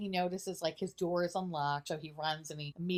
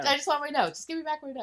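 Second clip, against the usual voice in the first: whiny villain voice; 8 semitones higher, 4 dB louder, faster than usual. Retold or imitated. Villain pleads.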